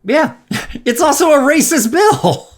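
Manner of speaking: high, loud indignant rant; heated outrage. Real, not acted. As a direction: hit it with outrage. Angry rant about the bill.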